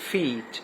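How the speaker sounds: فیٹ with a long "ee" vowel. Shown as a demonstration. Teacher showing a long vowel sound, long-vowel فیٹ. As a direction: model فیٹ alone, with a full "ee". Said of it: "long وال sound آ رہی ہے".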